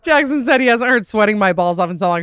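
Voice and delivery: laughter running through the words; laughing while talking. Real, not acted. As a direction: retell it still laughing. Amused retelling of his remark.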